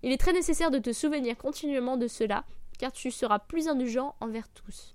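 solemn reading of a philosophy passage; reading aloud. Acted. Reads a Marc Aurèle passage.

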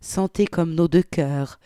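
put-on expressive reading of an old letter; dramatic reading aloud; story narration. A narrator's reading. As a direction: voice a prim, flustered wartime godmother.

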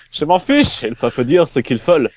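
hammed-up German accent. Still reading Barrichello's quote in a mock German accent. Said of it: "Accent allemand, accent allemand".

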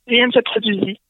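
ordinary delivery

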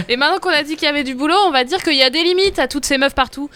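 giggling out a mock provocation; laughing joke. Real, not acted. Podcast host joking to co-hosts, laughing through the words.

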